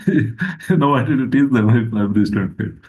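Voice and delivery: talking through a chuckle; amused, laughter bubbling into the words; laughing. Real, not acted. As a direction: chuckle as you start, then settle. Laughs while retelling teacher joke.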